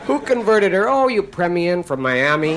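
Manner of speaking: loud, high play-by-play announcer; excited sportscaster. Pretend. Mock football commentator shouting the conversion play to the rabbi. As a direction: call it like a big touchdown replay.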